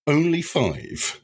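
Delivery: high, slow mock-proud announcement; triumphant cry. Drunk husband answering his friend's question, mock-triumphant cry. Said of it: "Northern cries, convinced of his relationship victories".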